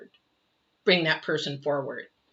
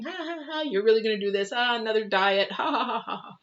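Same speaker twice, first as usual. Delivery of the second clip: mocking laughter; 4 semitones higher than usual. Gossips laughing at her new diet, mocking laugh. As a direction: laugh her plans off scornfully.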